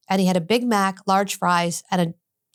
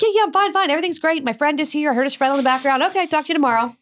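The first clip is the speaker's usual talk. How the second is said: high, upbeat imitation of him; acting out a happy, everything's-great reply; super happy; 7 semitones higher, faster than usual. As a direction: brush it off brightly, pitched well up. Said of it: "he's super happy".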